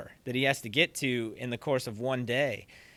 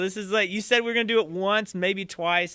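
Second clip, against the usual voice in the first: raised, higher-pitched impatient protest; imitated yelling back; 5 semitones higher, 4 dB louder than usual. Drummer with another gig to get to, yelling back. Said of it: "he's just yelling back at him".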